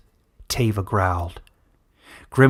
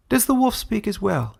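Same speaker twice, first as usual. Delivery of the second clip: taunting villain; 10 semitones higher than usual. Acted. Villain taunts caged wolf.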